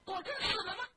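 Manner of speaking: high, loud, stunned cry; loud shocked question. Acted. Sick man hearing his cousin died, shocked shout. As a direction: jolt up and shout in disbelief. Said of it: "大声诧异问".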